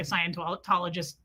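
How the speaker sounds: accidental Northeast accent on Scientologist; a touch of Northeast accent. Real, not acted. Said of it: "did I just have a Northeast accent?".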